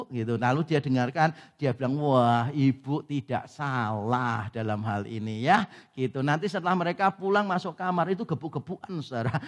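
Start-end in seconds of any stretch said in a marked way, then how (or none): 2.0-5.7 low, slow placating reassurance; lightly acted sympathy, words drawn right out; mock soothing pastor. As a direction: side with her slowly, voice lowered. Pastor placating the wife in turn.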